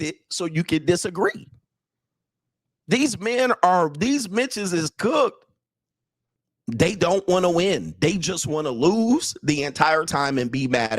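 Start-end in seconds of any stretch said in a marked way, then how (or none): 2.9-5.5 slow mocking verdict. Real, not acted. Mocking men, slow drawn out.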